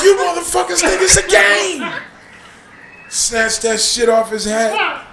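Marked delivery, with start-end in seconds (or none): 0.0-1.8 mild angry shout. Retold or imitated. Father shouting.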